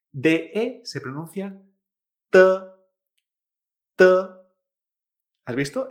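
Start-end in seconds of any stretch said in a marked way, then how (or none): 2.3-2.4 "T" as a soft, unaspirated t sound. Shown as a demonstration. Teacher shows how Chinese D E sounds, "T" as soft unaspirated t. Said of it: "Una T suave". 3.9-4.0 "T" as a soft, unaspirated t sound. Shown as a demonstration. Teacher shows how Chinese D E sounds, "T" as soft unaspirated t. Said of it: "Es una T suave".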